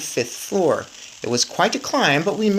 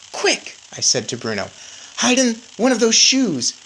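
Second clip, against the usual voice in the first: higher, urgent boy-mouse voice, lightly voiced; urgent little mouse; 7 semitones higher than usual. A narrator's reading. Boy mouse urging Bruno to hide, lightly voiced. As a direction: hurry him, small and pressing.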